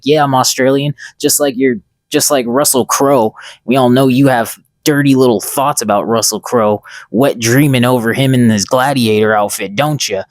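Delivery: retold roasting rant, lightly heated; mock rant. Friend roasting the school bully, mock ranting. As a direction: rant at the bully with punchy emphasis. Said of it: "He starts going on a rant".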